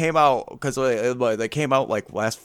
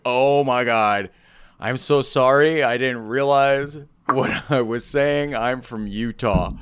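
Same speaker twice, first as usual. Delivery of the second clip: mock apology; slower than usual. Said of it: "She's like".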